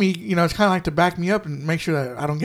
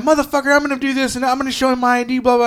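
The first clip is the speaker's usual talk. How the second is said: higher-pitched mock ranting woman; retold cussing customer; 6 semitones higher, faster than usual. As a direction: imitate her rant in a higher voice. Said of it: "She started cussing at me".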